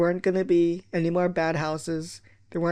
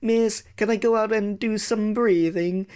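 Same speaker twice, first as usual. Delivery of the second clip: put-on whiny kid; 3 semitones higher than usual. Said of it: "The whiny ones".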